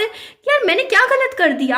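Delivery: high, exasperated appeal; indignant plea. Real, not acted. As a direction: demand to know what you did wrong. Pleading her innocence to viewers.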